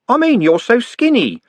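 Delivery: a pained city lad; Trev in pain. Acted. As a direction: wince through it. Trev voiced in read story.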